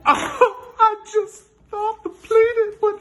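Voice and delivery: meek Janet voice. Acted. Janet voice, laughing.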